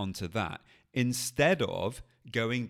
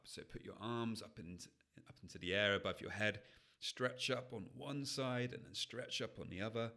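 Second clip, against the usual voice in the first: soft guided mindfulness voice, much softer; guided exercise; 4 dB quieter than usual. Acted. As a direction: lead them gently into the body. Guides a body anchoring exercise.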